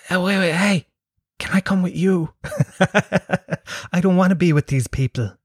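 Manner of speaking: high, eager begging voice; mock pleading. The speaker begging a young passer-by, high mock plea. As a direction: plead to tag along. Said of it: "I wanted to go".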